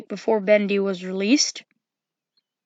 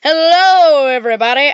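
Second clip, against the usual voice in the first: Bonnie; 3 semitones higher, 6 dB louder than usual. Acted. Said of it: "And then you got Bonnie".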